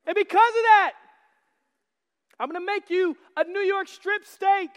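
husband imitating his wife's loud, adoring praise. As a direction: ham up a doting wife praising her husband. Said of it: "She comes and she says".

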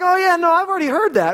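put-on high, quick, breezy kid voice; young son. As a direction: toss it off like a little boy. Voices young son's breezy reply.

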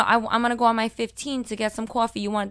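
quick, casual Brooklyn offer; Brooklyn accent. Retold or imitated. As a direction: toss it out in thick Brooklyn, "coffee" as "cawfee". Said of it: "was my Brooklyn accent".

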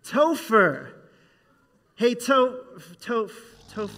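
calling the sleeping gopher. Pretend. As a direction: try to rouse a sleeper.

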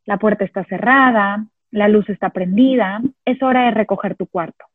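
calm, matter-of-fact describing voice; neutral descriptive tone. Shown as a demonstration. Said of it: "Con ese tono de voz descriptivo, neutro". (tono neutro y descriptivo)

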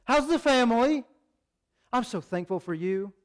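high, breezy mock small talk; casual chatty greeting. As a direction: sing out a relaxed hello to a friend. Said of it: "we don't have time to be like".

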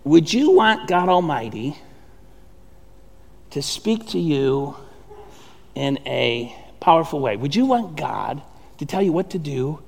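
sincere quiet question. Real, not acted. Pastor asking the congregation a heartfelt question, softly. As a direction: lean in and ask it gently.

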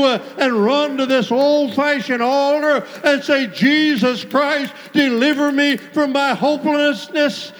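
urgent altar-call exhortation at full force; insistent revival preacher in full flow; fervent preaching. Real, not acted. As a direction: drive the congregation to its feet, barely pausing.

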